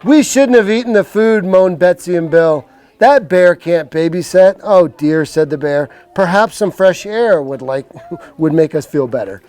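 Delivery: slow, clear storybook voice; reading to children. Acted. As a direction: read it like a bedtime book. Reads picture book to kids.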